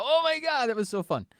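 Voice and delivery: high-pitched, giddy mock outburst; hammed-up breathless-with-glee friend; imitated exhilaration. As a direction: burst out as the thrilled friend, pitch soaring. Friend bursting out after streaking.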